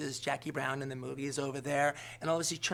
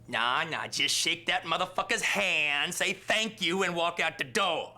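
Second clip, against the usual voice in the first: slow, louder hint of a heckler; moviegoer advising the screen; 3 semitones higher, 5 dB louder, slower than usual. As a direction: talk to the screen, telling him what to do. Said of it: "he's like".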